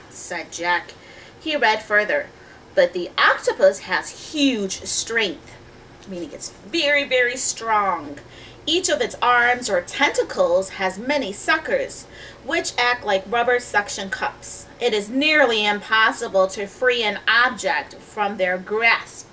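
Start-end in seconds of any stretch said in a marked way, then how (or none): 1.4-5.5 put-on measured storybook reading to children; story narration. A narrator's reading. Reads the story aloud. 8.7-19.3 put-on measured storybook reading to children; story narration. A narrator's reading. Reads the story aloud.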